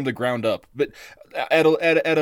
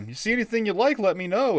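butcher impression; 8 semitones higher than usual. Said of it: "Hank is standing there like".

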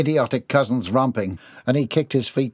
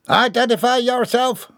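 haughty order; 12 semitones higher, 3 dB louder than usual. Acted. Haughty boy orders pirates.

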